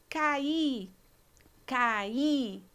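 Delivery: Caí with a and í in separate syllables, stress on í; teacher's demo of caí; separated vowels. Shown as a demonstration. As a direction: split caí clearly in two. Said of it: "Dois sons vocálicos separados".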